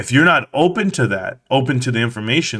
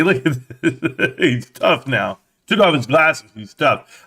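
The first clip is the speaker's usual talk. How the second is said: laughing mockery; slower than usual. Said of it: "I was laughing the whole time".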